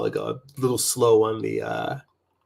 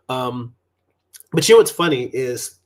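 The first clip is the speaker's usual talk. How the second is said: slurping coffee; 6 dB louder than usual. Real, not acted. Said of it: "sorry about the slurping on camera".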